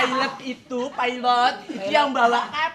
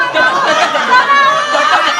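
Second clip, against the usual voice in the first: much higher and louder coba cocok gak; high excited call; 11 semitones higher, 9 dB louder than usual. Acted.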